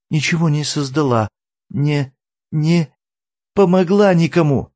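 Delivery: put-on a guilty girl near tears; tearful young Eri. A narrator's reading. Eri tearfully confesses to the fiddler, high and tearful.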